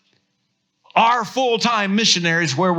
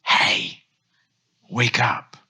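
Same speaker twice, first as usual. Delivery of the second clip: wake-up call; 4 semitones lower, much slower than usual. Pretend. Jolting the listener awake.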